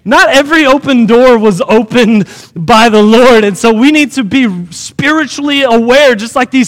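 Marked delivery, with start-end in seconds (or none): 0.0-3.4 NOT stressed, louder second time; emphatic preacher repeat. Shown as a demonstration. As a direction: hammer home "Not every open door". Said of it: "Can I say that again?".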